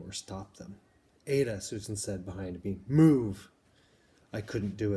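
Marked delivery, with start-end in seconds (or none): 1.3-1.6 firm call. Acted. Susan urging Ada into shelter. 2.9-3.5 a loud, high, sharp order; sharp command. Acted. Susan orders a frozen Ada into the shelter, loud sharp command.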